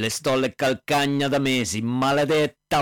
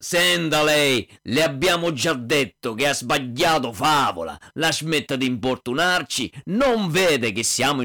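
angry shout. Acted. The hunter shouting down the pestering prince, angry. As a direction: yell him off, fed up.

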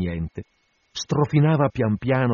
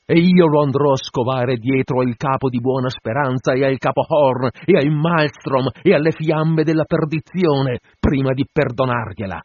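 loud, high, driving tirade; impassioned captain ranting to his crew; vengeful vow; 4 semitones higher, 5 dB louder than usual. Acted. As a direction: swear revenge with unrelenting force. Captain vows revenge to crew.

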